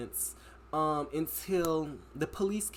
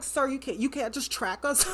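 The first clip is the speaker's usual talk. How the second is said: incredulous, high; 7 semitones higher than usual. Retold or imitated. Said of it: "And I'm like".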